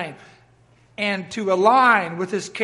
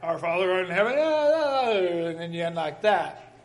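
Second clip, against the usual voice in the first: flat prayer ending; 2 semitones lower than usual. Shown as a demonstration. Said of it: "It's not like a plane".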